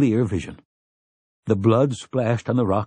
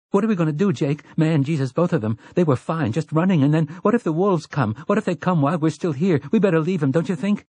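put-on high-pitched, panicky boy; gibbering; 6 semitones higher, faster than usual. A narrator's reading. Benny to Jake over the injured twins, panicked gibbering. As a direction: babble anxiously, question tumbling after question. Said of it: "Benny was gibbering".

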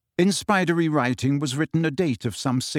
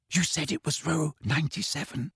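whispered; 2 semitones higher, 6 dB quieter than usual. A narrator's reading. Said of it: "whispered Hermione".

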